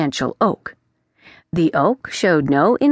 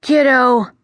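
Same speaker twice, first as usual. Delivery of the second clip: solemn; 7 semitones higher, 5 dB louder than usual. Acted. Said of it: "he sounded far more solemn than usual".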